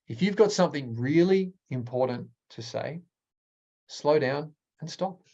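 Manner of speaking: slowed down, letting it hang; measured delivery with pauses. Shown as a demonstration. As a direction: take your time and stop. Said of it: "Versus if you've got something really important to say".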